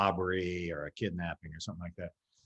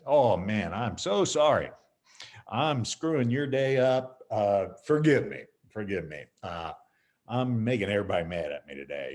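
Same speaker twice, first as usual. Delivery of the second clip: from the stomach. Shown as a demonstration. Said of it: "say it from down in your stomach".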